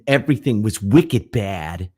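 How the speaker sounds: imitated Boston accent, emphatic. Recalling a woman from Boston, imitated Boston accent. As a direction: mimic a Bostonian, punching the words. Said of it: "crazy Boston accent".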